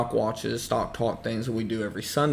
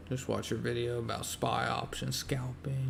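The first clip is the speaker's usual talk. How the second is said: whispering; 10 dB quieter than usual. Real, not acted. Reading chat message to himself.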